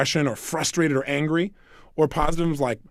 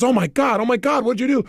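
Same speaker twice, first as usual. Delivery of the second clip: retold panic; 6 semitones higher than usual. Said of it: "She runs over and says".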